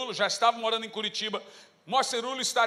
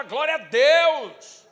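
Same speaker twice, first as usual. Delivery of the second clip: slow, loud, drawn-out churchy praise; mock pious praise; 4 semitones higher, 10 dB louder, much slower than usual. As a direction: suddenly turn holy and stretch it out. Switching from cursing to praise.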